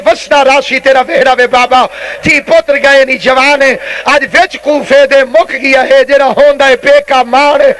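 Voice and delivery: mournful recited verse, words stretched out; Zainab's retold lament. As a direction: imitate a tearful plea in preacher's cadence. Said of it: "رو رو کے زینب فرماتی ہے".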